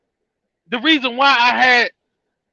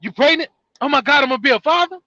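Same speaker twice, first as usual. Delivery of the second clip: faster, higher burst of joy; excited new father; 3 semitones higher, faster than usual. Retold or imitated. Man hearing he'll be a father, mock excited. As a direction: imitate a man thrilled by the news. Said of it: "gets excited and be like".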